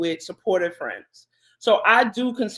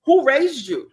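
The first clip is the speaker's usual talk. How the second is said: put-on slow, higher scolding of a kid; mock scolding; 5 semitones higher, 4 dB louder, slower than usual. Youth worker wanting to tell off the kids, scolding. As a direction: draw it out like an exasperated reprimand. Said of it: "you can't talk to kids like that".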